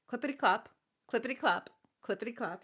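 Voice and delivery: playful clip-clop sound effect; imitated hoofbeats. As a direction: tap out hooves with the voice, fading off. Imitates the hero's horse trotting.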